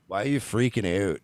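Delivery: imitated Canadian accent with rounded "out"; mock Canadian accent. Host imitates singer's talking voice, mock Canadian accent. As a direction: put on a light Trailer Park Boys Canadian accent. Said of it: "as soon as he talks, he's like".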